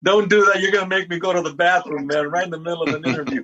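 laughing through the words. Real, not acted. Co-host cracks him up.

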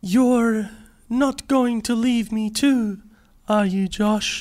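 put-on Australian accent. Actor as Josh asking Maya not to leave, Australian accent. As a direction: act it slowly in a careful Australian accent. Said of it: "Maybe I'll just do it with an Australian accent".

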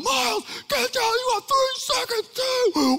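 high, loud, countdown threat; yelling up the stairs. Retold or imitated. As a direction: shout the ultimatum up the stairs. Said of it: "as I'm yelling up the stairs".

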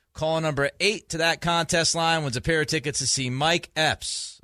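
upbeat radio giveaway read; radio contest promo. Acted. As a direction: pitch the contest like a DJ.

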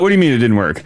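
mock puzzled hypnotist. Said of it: "He's like".

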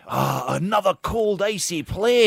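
high, loud settler in a hammed-up Scottish lilt; a settler moaning in a put-on Scottish voice about moving somewhere cold; mock Scottish settler. Scottish settler complains to companions about moving, in a hammed-up Scottish accent.

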